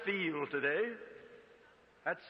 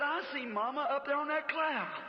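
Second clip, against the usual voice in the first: put-on high, awed little boy; a small son amazed, voice lifted high; lightly voiced child crying out in wonder; child's wonder; 10 semitones higher, 3 dB louder than usual. Little boy seeing his mother.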